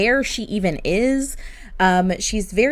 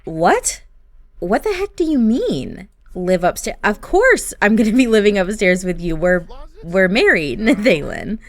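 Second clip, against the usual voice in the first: louder, rising into a laughing protest; can't believe what she's hearing; wife protesting that they're married; indignant disbelief; 4 dB louder than usual. Acted. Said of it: "And she's like".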